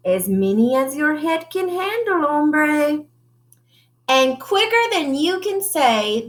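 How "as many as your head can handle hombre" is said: put-on a light Spanish accent, tossed off with swagger; a hint of a Spanish accent. Chihuahua answering the mirror in a light Spanish accent. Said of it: "using his very best Spanish accent".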